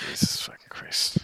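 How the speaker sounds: real whispered curse in dismay; appalled whisper. Real, not acted. Co-host hearing of the remake, appalled whisper. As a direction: whisper it under the news.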